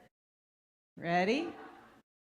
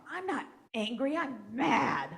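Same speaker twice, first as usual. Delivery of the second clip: put-on indignant kid; 6 semitones higher, 4 dB louder than usual. Student retorting in school.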